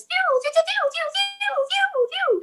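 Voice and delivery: very high, drawn-out moaning calls; mock bedroom moaning. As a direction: moan the name over and over. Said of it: "yelling that out in bed".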